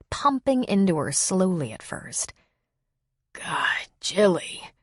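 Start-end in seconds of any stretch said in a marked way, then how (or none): 3.3-4.7 hushed breathy whisper. A narrator's reading. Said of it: "he whispered".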